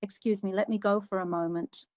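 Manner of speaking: softly, calm with a hint of urgency; quiet, calm plea to her husband; calm but urgent. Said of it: "in a calm but slightly urgent voice".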